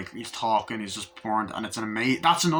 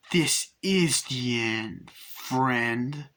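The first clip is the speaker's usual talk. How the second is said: slow, spaced-out retold verdict; grim farewell; much slower than usual. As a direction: draw out each word deliberately. Acted reply before lighting match.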